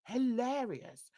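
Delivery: ordinary talk, nothing marked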